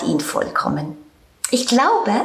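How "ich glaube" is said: gently smiling. Acted. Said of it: "lächelte ein bisschen".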